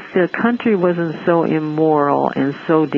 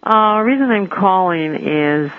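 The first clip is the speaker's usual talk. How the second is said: speaking up; 5 semitones higher than usual. Real, not acted. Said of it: "Oh, speak up, please".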